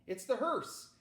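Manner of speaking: a dry, knowing announcement; wryly. A narrator's reading. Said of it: "he said wryly".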